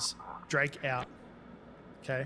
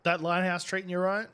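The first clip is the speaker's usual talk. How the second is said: put-on gruff old fisherman; 4 semitones higher, 4 dB louder than usual. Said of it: "Old fisherman".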